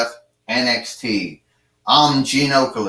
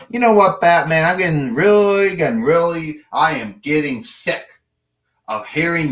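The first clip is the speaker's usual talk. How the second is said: exasperated outburst; 4 semitones higher than usual. Acted. Dean snaps at Batman.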